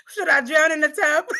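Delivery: laughing. Retold or imitated. Retold prayer, laughs at it.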